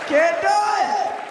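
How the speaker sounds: slow, high, emphatic refrain. Acted. Punchline refrain slowed.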